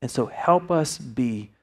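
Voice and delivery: low, measured closing prayer; sincere talk to God with reflective pauses. Real, not acted. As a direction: lead them in earnest, unhurried prayer.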